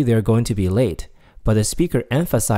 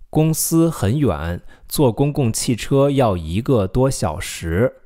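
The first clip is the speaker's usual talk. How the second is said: slow, careful read ending without 呢; slow model sentence; 2 semitones higher, slower than usual. Shown as a demonstration. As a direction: model it slowly for repeating. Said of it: "how do you say".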